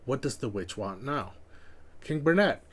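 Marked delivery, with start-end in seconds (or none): 2.0-2.6 lightly voiced indignant courtier. Reading a rival's complaint to the king, mild mock outrage. Reads in-game character's complaint.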